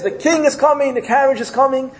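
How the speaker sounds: high-pitched, excited news of an arrival; excited announcement. Acted. Son hears exciting news in parable.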